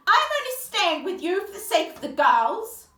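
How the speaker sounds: loud, high angry shout; mother shouting. Acted. A mother shouting at her husband on the stairs, loud and high. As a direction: yell it at the husband in a fight. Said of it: "she heard her mother shout".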